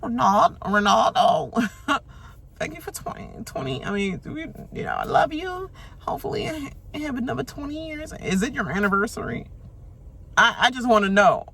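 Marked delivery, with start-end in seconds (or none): 0.0-8.1 high, pleading put-on voice; mocking Kevin's begging. Mocking Kevin begging Ronaldo in his speech, high pleading voice. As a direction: beg sweetly in a high voice. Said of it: "Kevin on the begging ass".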